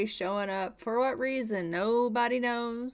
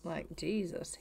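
breathless whispered aside; shocked whisper under the breath; whispered Jesus; 5 semitones lower, 8 dB quieter than usual. Real, not acted. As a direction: hush it out in disbelief. Shocked at the realtor's intrusion.

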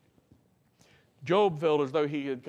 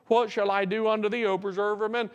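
raised, urgent scripture plea; crying out to God; 5 semitones higher, 4 dB louder than usual. Acted. Preacher quoting Job's question to God, crying out. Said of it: "as Job cries out there".

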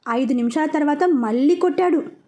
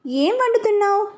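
higher, calling across to the kitchen; wife calling to the cook in the kitchen, voice raised; 6 semitones higher than usual. Acted. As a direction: raise the voice a little to reach him. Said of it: "కొంచెం voice పెంచి అడిగింది".

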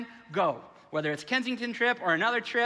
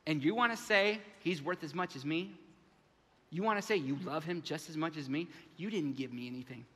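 hurt, fading complaint; 4 semitones lower, 4 dB quieter than usual. Acted. Older brother's complaint dies down.

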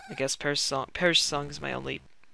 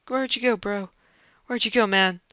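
calling out; 7 semitones higher, 8 dB louder than usual. Real, not acted. Calls after vanished character.

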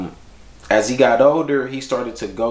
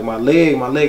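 put-on child's whine, higher and a little louder; imitated whining; 5 semitones higher, 4 dB louder than usual. Son whining to Daddy after a bike fall, imitated whine. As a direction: mimic a hurt little boy complaining.

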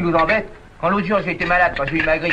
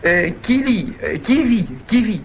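raised, halting stumble through syllables; tongue-twister attempt; 5 semitones higher, 3 dB louder, slower than usual. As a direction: trip over a magic formula, restarting repeatedly. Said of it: "faut le dire trois fois sans respirer".

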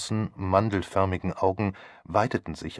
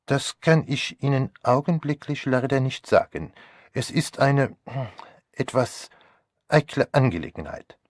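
put-on higher, hesitant French-accented German; Poirot; 6 semitones higher, 3 dB louder than usual. A narrator's reading. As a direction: discreet detective choosing his words. Plays Poirot.

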